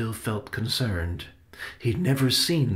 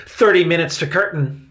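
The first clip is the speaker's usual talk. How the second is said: loud, high barked announcement; 9 semitones higher, 8 dB louder than usual. A narrator's reading. Victoria bursts in announcing curtain time, barking. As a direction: bark it out like a stage manager. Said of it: "She barked".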